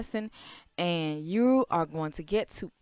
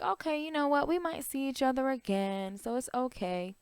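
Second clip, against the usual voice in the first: lightly voiced cheerful thought, higher; a light, higher happy voice for Mumbo and Jumbo; characters' thoughts; 6 semitones higher, 6 dB quieter than usual. Teacher voicing the twins' cheerful thoughts, higher.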